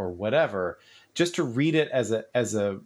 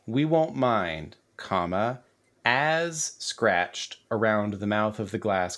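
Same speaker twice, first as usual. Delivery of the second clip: dictating. Shown as a demonstration. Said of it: "let me just read this exactly".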